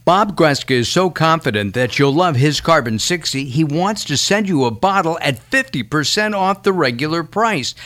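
loud, quick pitchman read. Acted. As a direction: sell it like a radio spot. Host reads live ad.

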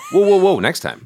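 high, loud alarmed "whoa" from the cast; shocked cast cries out in alarm; alarmed cry. Retold or imitated. Cast reacting to Michael's threat, alarmed high cry. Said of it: "they're like".

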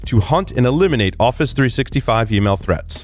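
smooth sponsor ad voice; ad read. Acted. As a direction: sell it like a radio spot.

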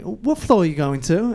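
lightly imitated English accent. Retelling a big man in a London elevator, English accent. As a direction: put on a touch of an English accent. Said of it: "he just busts out the English accent".

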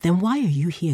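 a touch of a sharp retort; snapping. Acted. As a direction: cut him off impatiently. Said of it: "Zeke snapped".

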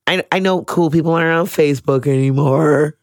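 ordinary delivery

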